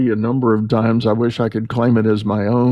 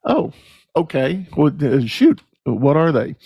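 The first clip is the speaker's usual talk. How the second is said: high, startled mock surprise, a bit higher; caught off guard; 4 semitones higher than usual. Owner hears the real reason for the outing, surprised. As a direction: act thrown by the news, then recover. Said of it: "And he went".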